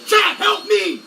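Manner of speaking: urgent yell for rescue; calling for help. Real, not acted. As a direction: cry out to the chat for help. Stuck, pleading with chat for help.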